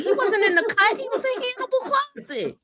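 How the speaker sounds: high-pitched, laughing through the words; helpless laughter breaking into the line. Real, not acted. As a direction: crack up while repeating the joke. Cracking up over own joke.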